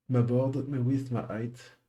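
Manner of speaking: English coding terms in a French accent; French accent on board, width, height. Real, not acted. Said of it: "mon super accent anglais".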